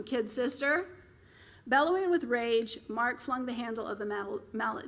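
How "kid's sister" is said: mocking taunt on Kid's sister. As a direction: throw "Kid's sister" back at him, mocking. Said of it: "called out mocking".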